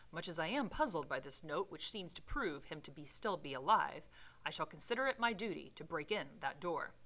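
measured read-aloud storytelling voice; story narration; reading the novel aloud. Acted. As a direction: read the Victorian prose with care.

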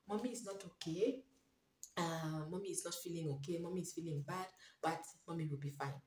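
calm a worried little one softly; gentle reassurance to a child. Pretend. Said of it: "in an understanding of a child, like".

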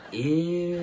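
long mock-disgusted whine; disgusted crowd reaction. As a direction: stretch it out, imitating a grossed-out crowd. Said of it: "And then again".

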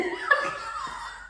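high-pitched breathless laugh. Real, not acted. Man laughing at impression of his nan, high.

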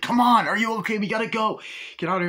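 high, loud panicked hurry; panicked urging. Retold or imitated. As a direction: rush them out in a panic. Chuck panicking during attack.

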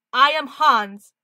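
loud, slow, shaky attempt at a Russian accent; bad Russian accent. Cameraman introducing himself as Hans, bad Russian accent. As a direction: announce yourself in a fumbled Russian accent. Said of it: "I'm doing the accent wrong".

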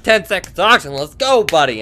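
lightly mocked urgent announcer; imitating oxygen warning lady. Player imitates the ignored oxygen lady, mock urgency. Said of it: "She's like".

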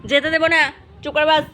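firm scolding. Real, not acted. Owner tells cat it can't go out in the rain, scolding loudly. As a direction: lay down the law to the cat.

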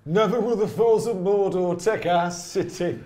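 booming, slow epic movie narration; narrator voice. Acted. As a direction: declaim it high and grand like a film hero. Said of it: "in your best narrator voice".

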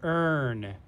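"earn" said alone as a model; word demonstration. Shown as a demonstration. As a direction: sound out "earn" with a held er. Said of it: "This says earn".

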